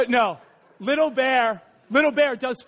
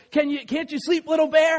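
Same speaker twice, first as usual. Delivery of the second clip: higher-pitched storybook question; lightly voiced parent bear asking; Big Bear; 6 semitones higher than usual. A narrator's reading. Big Bear checking on the cub once more, questioning. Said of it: "they have that same conversation".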